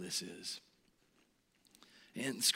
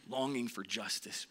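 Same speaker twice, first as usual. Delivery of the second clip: hushed whisper; 5 dB quieter than usual. Acted. Preacher hushes over the killing.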